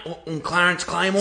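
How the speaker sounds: hesitant and small, stumbling on the first word; nervous mumbled introduction; timid stammer. Acted. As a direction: say your name like you're scared to. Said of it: "Say it with your fucking chest".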